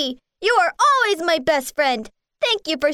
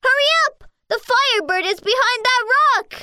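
urgent call; 7 semitones higher than usual. Acted. Calling warriors to chase.

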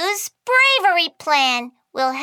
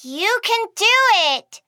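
cheering on; 5 semitones higher than usual. Acted. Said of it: "balled her hand into a fist to cheer".

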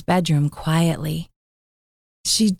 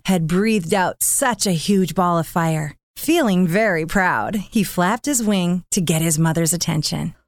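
ordinary delivery, nothing marked

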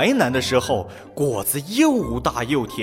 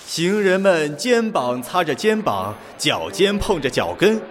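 calm; 5 semitones higher than usual. Acted. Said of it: "镇定地说".

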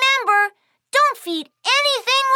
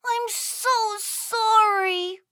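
much softer, slow apology; softly sorry; 5 dB quieter, slower than usual. Acted. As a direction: drop your voice, truly sorry. Kiki apologizing to Puppy.

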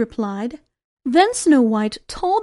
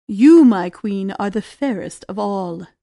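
deep mirror voice; 7 semitones lower, 4 dB louder than usual. Acted. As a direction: speak as a solemn magic mirror. Magic mirror answers.

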